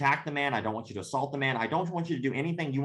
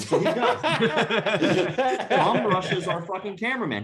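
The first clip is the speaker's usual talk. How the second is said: laughing loudly; 7 semitones higher, 6 dB louder than usual. Real, not acted. Laughing while telling bum rush.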